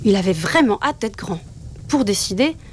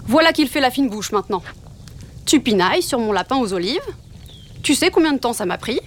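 père loup vexé; 2 semitones higher than usual. Acted. Papa Loup fâché par le refus.

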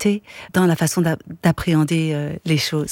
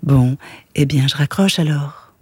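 syrupy voice; 3 semitones lower, 4 dB louder than usual. Acted. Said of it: "d'une voix sirupeuse".

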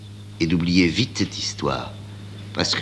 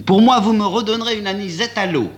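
put-on high, calm young woman's voice; calm Amanda; 12 semitones higher, 4 dB louder than usual. A narrator's reading. Amanda ordering from the maître d'hôtel, high and calm. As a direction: order the drink coolly, voice lifted high.

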